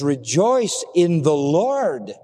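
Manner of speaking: slow "Rejoice in the Lord", completing the phrase; "in the Lord" spelled out slowly and deliberately; stress on LORD. Shown as a demonstration. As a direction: draw out "in the Lord" as the key qualifier. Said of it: "It doesn't say rejoice".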